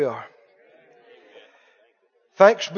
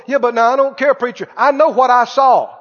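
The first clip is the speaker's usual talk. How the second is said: stubborn churchgoer; 3 semitones higher, 6 dB louder than usual. Retold or imitated. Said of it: "people tell me before".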